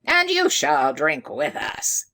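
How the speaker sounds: loud, slow insistent call; shouted. A narrator's reading. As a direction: push the invitation out loudly. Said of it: "shouted one of the guests".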